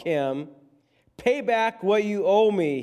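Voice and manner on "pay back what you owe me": high, forceful demand. A narrator's reading. Servant confronts a fellow servant who owes him, demanding. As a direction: demand it with pitch jumping up. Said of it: "he demanded".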